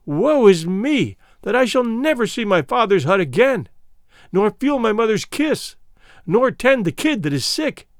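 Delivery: a lightly voiced high, pleading lament; anguished lament. Fulada begging for her life before the king, mild anguished pleading lament. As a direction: plead for her life in despair, mildly acted. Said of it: "wrung her hands in anguish and cried out aloud".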